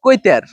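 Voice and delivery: কৈতের said as the local word for pigeon; dialect word. Shown as a demonstration. Villager naming the local word for pigeon. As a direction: set কৈতের apart. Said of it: "আঞ্চলিক ভাষায় বলে".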